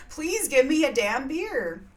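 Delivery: hammed-up angry outburst; mock angry. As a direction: play a furious, frustrated bear. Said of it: "gets so angry".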